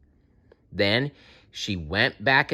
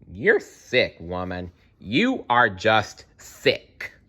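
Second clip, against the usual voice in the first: disgusted scolding; slower than usual. Real, not acted. Reader scolds the witch.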